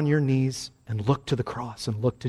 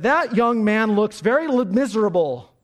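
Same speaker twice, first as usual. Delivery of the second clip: imitating the preacher; 6 semitones higher, 3 dB louder than usual. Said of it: "and said".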